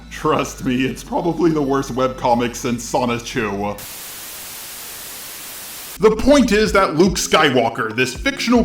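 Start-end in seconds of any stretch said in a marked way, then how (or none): 0.1-3.8 flat robot voice, softer. Acted. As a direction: speak like a robot announcer. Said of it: "in the robot voice for the second time".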